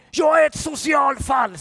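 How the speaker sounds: loud, high-pitched imitation of an angry yell; retold shout. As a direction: shout it out as the tough guy boarding the bus. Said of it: "skrek han". (härmat högt skrik)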